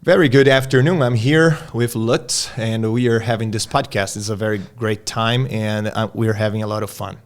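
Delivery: careful, slow American-accented English; gringo accent. Shown as a demonstration. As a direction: sound like an American, loud opener then steadier. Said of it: "conversando com um gringo".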